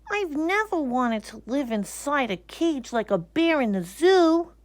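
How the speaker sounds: peer in doubtfully; uneasy little bear. Acted. Bear peeking through basket bars, uneasy. Corduroy voiced.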